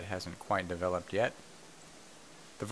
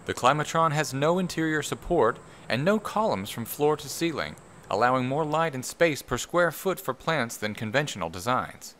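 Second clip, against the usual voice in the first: higher, emphatic documentary narrator delivery; 5 semitones higher, 3 dB louder than usual. Acted. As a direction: put on your best documentary narrator voice, pitched up and punchy. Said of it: "in my best documentary voice".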